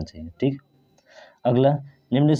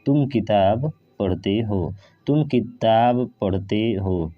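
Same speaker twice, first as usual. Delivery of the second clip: slow careful reading; slower than usual. Shown as a demonstration. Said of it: "यहाँ पे देखिएगा".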